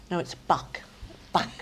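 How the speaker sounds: correcting with "buck" for book, short vowel; London pronunciation of book. Retold or imitated. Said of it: "I couldn't get over how they used to say".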